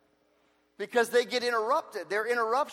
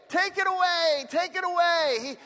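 echoed plea; 6 semitones higher than usual. Retold or imitated. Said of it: "Three times I pleaded with the Lord".

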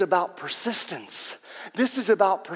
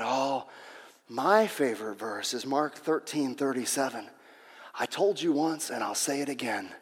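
little Johnny; 5 semitones lower, 5 dB quieter than usual. Retold or imitated. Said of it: "And Johnny said".

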